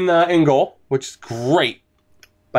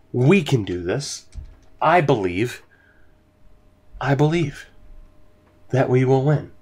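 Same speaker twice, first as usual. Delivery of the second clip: solemn mantra; 3 semitones lower than usual. Real, not acted. Chanting belief to self.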